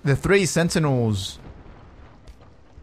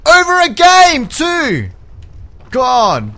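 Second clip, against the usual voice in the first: loud, high, drawn-out exasperated cry; exasperated outburst, stretched and high; pissed off; 12 semitones higher, 8 dB louder, slower than usual. Real, not acted. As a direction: wail in anger at yourself. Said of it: "I am legitimately pissed off".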